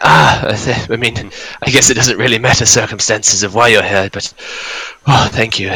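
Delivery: put-on northern Scottish accent. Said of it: "his northern Scottish accent".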